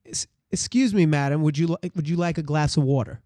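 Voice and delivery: everyday Brooklyn accent as a waiter; plain-spoken American Brooklyn waiter. Shown as a demonstration. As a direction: ask politely in your regular Brooklyn accent. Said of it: "This is American Brooklyn".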